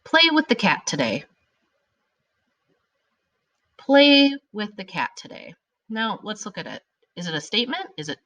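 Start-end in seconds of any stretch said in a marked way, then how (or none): 3.8-5.5 command. Shown as a demonstration. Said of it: "It's an imperative sentence".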